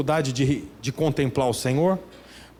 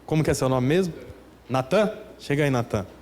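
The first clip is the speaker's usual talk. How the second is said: mock pious talk to a friend; 5 semitones lower, faster than usual. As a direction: talk to a friend like a stiff prayer. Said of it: "você fala assim com ele".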